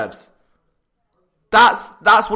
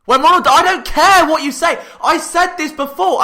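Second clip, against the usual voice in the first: mean; 5 semitones higher than usual. Real, not acted. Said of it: "that sounded really mean".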